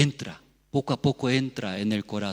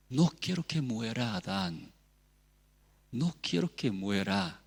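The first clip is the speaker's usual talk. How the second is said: hushed plea; 6 dB quieter than usual. Acted. Preacher voicing God's heart for Adam, hushed plea. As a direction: drop to a quiet, sorrowing appeal.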